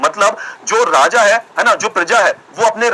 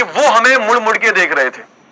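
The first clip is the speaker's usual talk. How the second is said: playful poetry-recital delivery; mock shayari recital. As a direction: recite a comic couplet, repeating each half for suspense. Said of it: "तो उसी पे एक शायरी याद आ गई मुझे".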